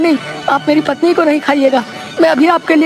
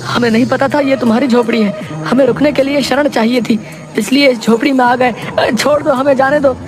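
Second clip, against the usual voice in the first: very high-pitched, frightened priest voice; terrified pleading; 4 semitones higher, faster than usual. Acted. Priest begging a cannibal to let them go, terrified. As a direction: beg for release, pitch climbing higher. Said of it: "बुरी तरह डर जाते हैं".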